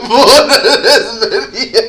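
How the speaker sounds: rising laughing voice; fighting back laughter. Real, not acted. Starts cracking up.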